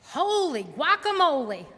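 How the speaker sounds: surprised exclamation. Pretend. Exclaiming at freeway traffic.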